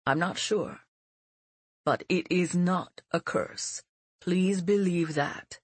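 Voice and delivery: put-on a grave old teacher; old mentor voice. Mentor explains.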